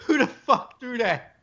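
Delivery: high, slow yell through laughter; cracking up as you yell it; laughing mock yell. Repeating heckle through laughter.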